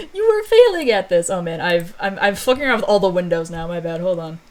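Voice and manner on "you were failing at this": high, loud accusing tone; mock scolding. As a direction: rub his failure in his face. Zerko scolding protector.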